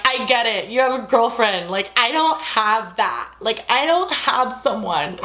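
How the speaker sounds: slow, mock dramatic lament; overly dramatic plea, drawn out. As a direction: ham up the self-pity. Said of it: "I said some pretty dramatic shit".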